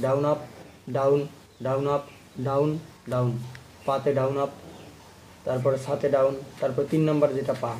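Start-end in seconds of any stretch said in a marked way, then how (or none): 0.1-3.3 rhythmic down up count; steady stroke count. Shown as a demonstration. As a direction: tick off each stroke. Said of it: "তাহলে কি হচ্ছে?".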